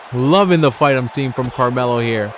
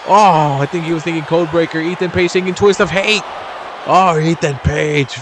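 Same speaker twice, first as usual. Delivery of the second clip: excited play-by-play; 4 semitones higher than usual. Real, not acted. Commentator reacts to a twist of hate, excited. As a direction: react big, then name the move with rising excitement.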